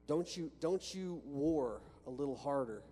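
ordinary talk

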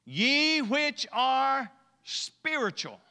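high, loud, very slow declamation; drawn-out, ringing Bible verse; scripture reading. Acted. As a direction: stretch each word out to the congregation. Declaims King James verse.

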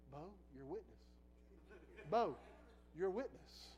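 soft, hushed wifely plea; soft sweet voice. Retold or imitated. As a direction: gently remind him, softly. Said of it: "in that soft, sweet voice".

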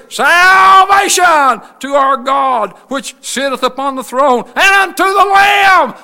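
long, drawn-out preacher's shout; loud crying out. Acted. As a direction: cry it out to the whole congregation. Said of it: "They cried with a loud voice".

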